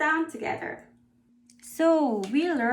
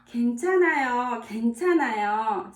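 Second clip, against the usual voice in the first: brisk reply; much faster than usual. Acted. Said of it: "Someone said".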